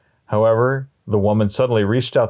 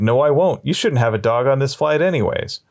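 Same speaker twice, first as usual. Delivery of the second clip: higher-pitched, mildly indignant retort; a touch of anger in a raised pitch; mildly angry; 5 semitones higher than usual. Acted. Man refusing woman on a plane, mildly angry. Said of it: "He angrily replied".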